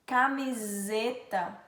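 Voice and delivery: "Camiseta" slow, with lengthened z; S sounded as Z. Shown as a demonstration. Teacher giving an example of Z, "Camiseta" drawn out. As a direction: buzz the s of "Camiseta". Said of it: "tem um som de Z".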